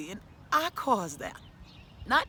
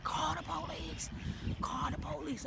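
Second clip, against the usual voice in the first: retold scream; 9 semitones higher, 5 dB quieter than usual. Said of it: "I'm screaming for my daughter".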